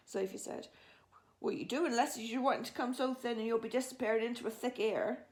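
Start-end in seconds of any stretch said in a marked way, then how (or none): 1.4-5.3 BFG. Acted. Narrator voices the BFG.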